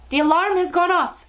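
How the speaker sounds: high, loud, excited shriek; witch's shriek. A narrator's reading. Witch as the alarm goes off, shrieking. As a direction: shriek it in triumph. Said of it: "shrieked the Grand High Witch".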